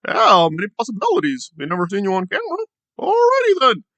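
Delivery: high, hammed-up doubting voice; mock skeptic voice. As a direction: lampoon the doubters with a high silly voice. Mocking skeptic's voice.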